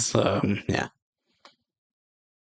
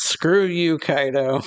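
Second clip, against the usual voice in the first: higher, mildly yelled insult; acted-out yell, pitched up then falling; mock yell; 5 semitones higher, 3 dB louder, slower than usual. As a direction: throw it out like a retold yell. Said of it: "she yells".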